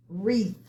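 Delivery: wreath with silent W; model word to repeat. Shown as a demonstration. Teacher models "wreath" for class to repeat, clear. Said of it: "So repeat after me".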